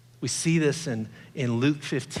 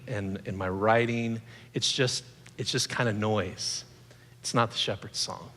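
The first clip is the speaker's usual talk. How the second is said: slow, softer, settling himself; calm resolve; 3 semitones lower, 4 dB quieter than usual. Retold or imitated. Author reassuring himself after the mean email, slow calm resolve. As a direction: quietly talk yourself down. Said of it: "I'm like".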